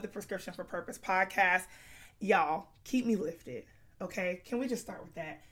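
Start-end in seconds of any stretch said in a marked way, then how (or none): 2.2-5.4 hoarse, strained voice; talking through a sick, worn voice; losing her voice. Real, not acted. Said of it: "I have no voice".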